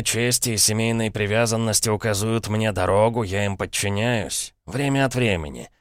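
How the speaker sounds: lightly voiced sly old uncle; a hint of a smug, knowing uncle. Uncle teasing nephew Dick, slyly amused. Paradine confessing.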